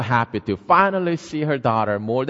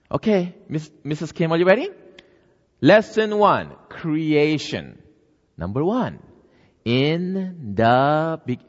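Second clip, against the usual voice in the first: higher, slowing to a crawl at the end; reading the lesson; 3 semitones higher, 3 dB louder than usual. Acted. Neighbor reading the Bible lesson to Missus Kim, slow and careful. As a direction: read it out like a patient teacher.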